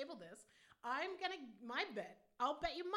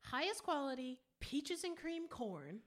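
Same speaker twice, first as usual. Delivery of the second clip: slowed down; slower than usual. Shown as a demonstration. Asked to slow down the website line, slow deliberate reading. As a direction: read slowly and deliberately. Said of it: "slow it down and tell me".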